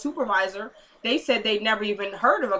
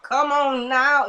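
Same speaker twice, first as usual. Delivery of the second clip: drawn-out, mildly raised cry of celebration; imitated praise shout, held back; mock shout; 3 semitones higher, much slower than usual. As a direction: stretch it out like a half-shouted hallelujah. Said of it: "throw her hands up and shout".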